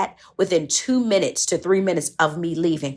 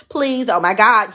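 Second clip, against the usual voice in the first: mock crying; 4 semitones higher than usual. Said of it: "I'm s-, crying".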